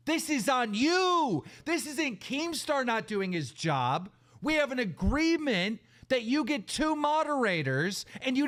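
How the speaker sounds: heated, indignant rant with stretched emphasis; fed-up, accusatory tirade; real anger. Real, not acted. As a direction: lay into them, pitch jumping up on the accusations. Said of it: "I'm mad".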